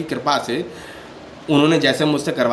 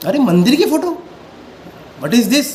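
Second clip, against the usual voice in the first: high, indignant disbelief; incredulous; 6 semitones higher than usual. Real, not acted. To viewers who asked for a temple photo, incredulous and raised. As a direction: scoff at the odd request, voice jumping up.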